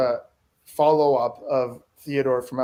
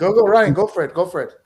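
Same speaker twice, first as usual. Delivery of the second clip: cheering; 5 semitones higher, 6 dB louder than usual. Real, not acted. Cheering a friend on.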